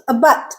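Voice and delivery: a but with a quick, weak first a; unstressed schwa. Shown as a demonstration. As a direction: rush lightly over the a in a but. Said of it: "it's very fast".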